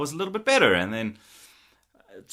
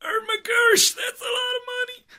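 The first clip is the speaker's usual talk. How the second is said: mock outrage at a pricey setup; shocked at the price. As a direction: yelp it like the bill just hit you. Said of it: "I was like".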